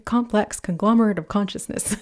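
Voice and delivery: tripping playfully through a mouthful of words; playful tongue twister. Pretend. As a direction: rattle it off lightly, breaking into a chuckle. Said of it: "Say that three times fast".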